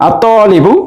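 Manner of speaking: "আর তলিবু" as at-talibu, no L; silent lam. Shown as a demonstration. Teacher showing students the silent lam, doubled T in "আর তলিবু". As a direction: double the T after the article in "আর তলিবু". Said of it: "লাম উচ্চারিত হচ্ছে না".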